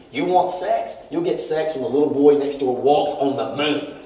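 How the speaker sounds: mildly voiced scolding wife, pitch jumping then settling; retold yelling. Wife telling off her husband, overheard by the boy next door, mock yelling. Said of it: "Missus Gorski yelling at Mister Gorski".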